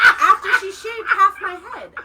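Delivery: slow, high laughing words. Real, not acted. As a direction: laugh it out in disbelief. Laughing at absurd mom remark.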